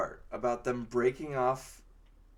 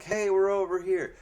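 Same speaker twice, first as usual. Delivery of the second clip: higher, louder mock call; 7 semitones higher, 6 dB louder than usual. Wounded teammate calling out to the spiders, loud mock shout. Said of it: "he might as well be calling out to the spiders".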